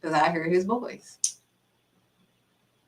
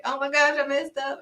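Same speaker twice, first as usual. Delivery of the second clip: higher-pitched mock panic; freaking out; 6 semitones higher than usual. Speaker retelling their alarm to God over a mistake, freaking out. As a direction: imitate yourself in a flustered fret. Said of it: "I was freaking out like".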